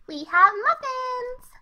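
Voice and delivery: slow, bright sales pitch; excited. Acted. Pinkie tempts the doctor with muffins, excited and drawn-out. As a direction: dangle the muffins as bait. Cheerful invitation to party.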